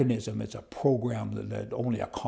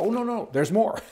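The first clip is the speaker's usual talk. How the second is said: high, chuckling retold reply; amused mock clerk; 9 semitones higher, 3 dB louder than usual. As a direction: quote them breaking into a laugh, pitched up. Quotes the seller gleefully piling on rules.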